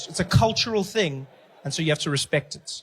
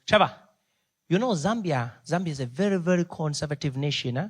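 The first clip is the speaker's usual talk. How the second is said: lightly voiced Zambian accent; measured Zambian-accented warning; Zambian chaperone's accent. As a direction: advise earnestly in a Zambian accent. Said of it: "he looks at me and he goes".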